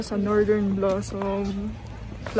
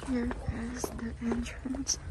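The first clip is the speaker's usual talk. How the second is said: whispering; 11 dB quieter than usual. Real, not acted. Whispering entering the farm.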